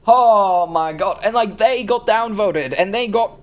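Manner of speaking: loud, high exasperated rant. Real, not acted. Reviewer ranting at both sides of a downvote fight, exasperated. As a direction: build from outrage into near screaming. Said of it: "I'm screaming way too much".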